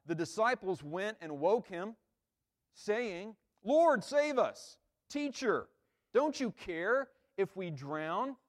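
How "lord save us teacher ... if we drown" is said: "Lord" cried high and slow, frantic; panicked plea. Shown as a demonstration. Disciples crying out to Jesus, panicked. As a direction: beg Jesus to save them from drowning. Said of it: "when we see them like this".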